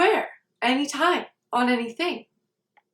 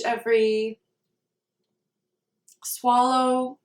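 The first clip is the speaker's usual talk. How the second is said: guided meditation. Real, not acted. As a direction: guide them unhurriedly, phrase by phrase.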